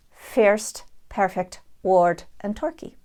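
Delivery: "first" as fehrst, "word" as wawrd, "turkey" as torkey; Dublin accent. Shown as a demonstration. Teacher showing how a Dubliner says first and word. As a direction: sound the vowel before the r, Dublin style. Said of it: "the Dubliner might say".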